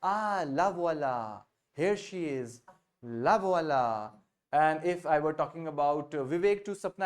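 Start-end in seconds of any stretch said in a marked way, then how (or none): 0.0-4.1 slow, pleased "Ah, la voilà"; spotting someone. Shown as a demonstration. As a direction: point her out with a slow, drawn "la voilà". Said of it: "so I will tell to Sapna".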